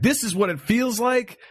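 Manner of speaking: mildly indignant inner rant, pitched a little up; enraged. Retold or imitated. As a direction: retell an outraged inner monologue.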